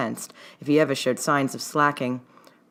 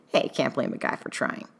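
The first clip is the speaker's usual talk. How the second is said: easy; 5 dB quieter than usual. A narrator's reading. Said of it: "said easily".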